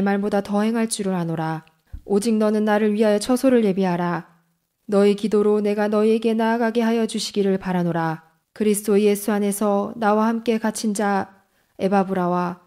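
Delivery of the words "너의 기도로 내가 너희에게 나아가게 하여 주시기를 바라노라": normal talking voice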